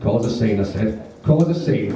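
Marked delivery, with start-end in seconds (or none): 1.2-1.9 higher-pitched incredulous repeat; indignant echo. Retold or imitated. Jack echoes his date's accusation, indignant. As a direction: throw the words back at her, outraged.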